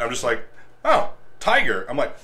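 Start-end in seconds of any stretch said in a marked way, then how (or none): 0.8-1.8 high, loud, slow exclaim; freaking out. Retold or imitated. Tired angler seeing the tiger fish, high slow exclaim. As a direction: drag it out in shock. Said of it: "I freaked out".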